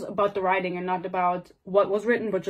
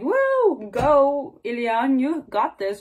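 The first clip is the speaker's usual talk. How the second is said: high woo, then a louder cheer; mock cheering; 4 semitones higher, 3 dB louder, much slower than usual. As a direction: cheer him on like a useless bystander. Imitates onlookers cheering him on.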